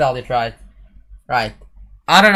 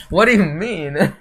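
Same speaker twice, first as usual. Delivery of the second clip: disbelief; 5 semitones higher, 6 dB louder than usual. Real, not acted. Friend rejects his French again.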